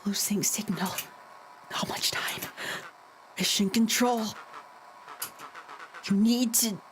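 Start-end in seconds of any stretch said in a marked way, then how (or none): 0.0-2.4 faint, whispered words breaking up; fading radio voice. Acted. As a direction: sound like the signal is dying. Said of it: "Rollo's voice began to fade".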